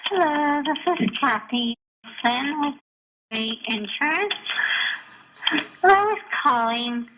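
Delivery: voicemail over the phone; recorded phone message; answering machine message. Real, not acted. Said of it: "this gem of a voicemail".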